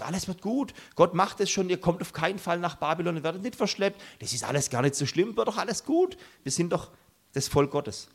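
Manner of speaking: a hint of a cheerful false prophet; mock reassurance. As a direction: lightly send up a smug prophet soothing the crowd. Mocking the false salvation prophets.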